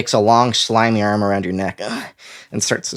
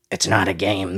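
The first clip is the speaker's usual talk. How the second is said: hollow mechanical voice; 3 dB quieter than usual. Acted. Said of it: "in a hollow, mechanical voice".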